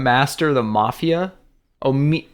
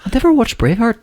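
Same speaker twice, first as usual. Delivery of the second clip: mock disbelief; 10 semitones higher, faster than usual. Mocking friend's shocked disbelief.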